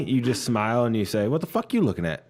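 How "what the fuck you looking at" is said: smiling threat. Shown as a demonstration. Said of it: "With a smile".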